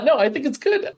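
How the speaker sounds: high rising lilt on the last word; uptalk. Real, not acted. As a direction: voice jumps up on good. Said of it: "My voice went up at the end of the good".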